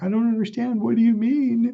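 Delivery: high, tearful voice, crying through the words. Speaker retells their own reply to a woman, retelling own crying words. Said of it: "I'm just fucking crying".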